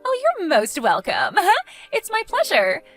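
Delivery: sugary fake courtesy; smug sarcasm. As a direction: gloat politely, lifting the pitch at the end. Sneering reply to sarcastic thanks.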